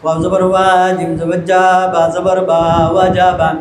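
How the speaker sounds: low, monotone spelling chant; rhythmic classroom recitation; rote spelling drill. Retold or imitated. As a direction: recite letter by letter in an even, low drone. Imitates teacher's rote spelling drill.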